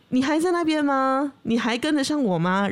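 calling out, lightly acted; eagle calling down. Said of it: "他又往这个地面去喊说".

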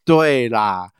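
imitating a brother's sarcasm, slow on 你最孝顺啦; drawn-out mock praise with a sneer; a lightly voiced sarcastic older brother. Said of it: "我哥在旁边酸说".

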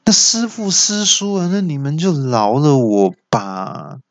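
put-on a scared kid begging to be let off; panicked yell. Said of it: "就大叫".

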